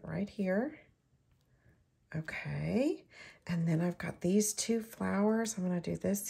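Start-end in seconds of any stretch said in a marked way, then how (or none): 2.2-3.0 whisper. Real, not acted. Murmur while placing pieces.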